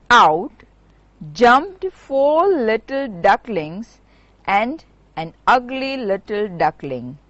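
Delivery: lively storytelling for schoolchildren; story narration. A narrator's reading. Teacher reading The Ugly Duckling to her students, lively storytelling. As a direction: read it like a teacher telling a fairy tale.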